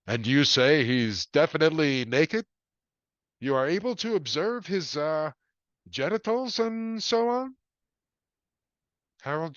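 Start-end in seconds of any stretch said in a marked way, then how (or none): 0.1-7.6 higher, prim and tinny; a cop embarrassed to ask; sergeant on phone. A narrator's reading. Sergeant asking Harold about the naked man, prim and higher.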